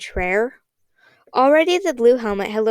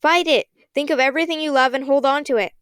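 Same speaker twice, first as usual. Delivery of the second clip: rally them with a raised voice; urgent shout; 4 semitones higher than usual. Acted. Rainey urges his friends to resist, shouting higher. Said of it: "Rainey shouted".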